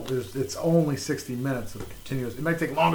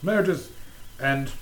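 mimicked mock consolation; put-on delivery, dropping at the end; Steve Coogan. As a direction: echo the line as a comic impression. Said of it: "sounded just like Steve Coogan".

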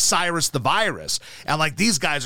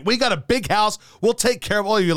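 raised, lightly put-on voice; mock generous offer; 5 semitones higher than usual. Coach offering to take in the babies, mock generous. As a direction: make the big-hearted offer in mock earnest. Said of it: "It's like".

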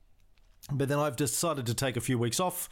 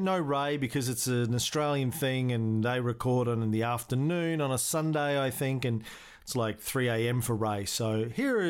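normal talking voice

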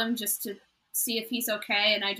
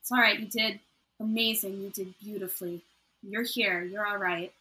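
soothing comfort. Acted. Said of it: "I'm just calming her down".

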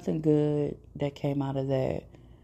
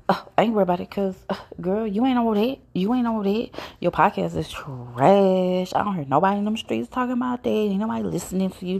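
louder, sassy taunt as the friend; mocking friend; 4 semitones higher, 4 dB louder than usual. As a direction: throw shade like the friend did. Friend's insult voiced.

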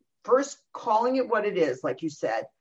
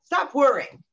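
dismissive command; 6 semitones higher, 7 dB louder, slower than usual. Retold or imitated. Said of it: "They don't say".

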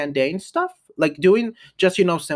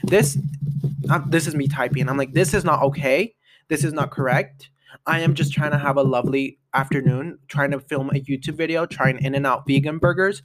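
Karen complaint. Retold or imitated. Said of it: "in my Karen era".

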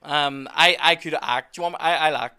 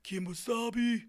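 slow, high, cheesy dubbed voice; bad ITV dub; 10 semitones higher, 4 dB quieter, much slower than usual. Mocking the TV dub for a friend, slow and high. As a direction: drag out Kimosabe like a bad dub. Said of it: "somebody from I T V goes".

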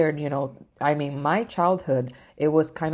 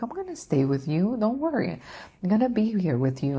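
soft voice; 6 semitones higher than usual. Retold or imitated. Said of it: "such a fucking soft voice".

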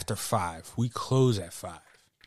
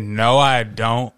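slower, louder flat retort; deadpan customer retort; 7 dB louder than usual. Retold or imitated. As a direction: say it straight and firm like the customer. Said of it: "She said".

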